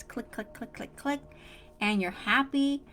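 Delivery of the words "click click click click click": breathy whispered click, click, click; soft whispered clicking count. Acted. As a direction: tick them off in a whisper, fading away. Describes things falling into place.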